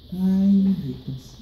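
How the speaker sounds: long drawn-out sighing "Ay"; pleading abuela. Retold or imitated. Grandma to squabbling grandkids, drawn-out pleading. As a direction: slowly lament like a patient grandma. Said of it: "my abuela would say".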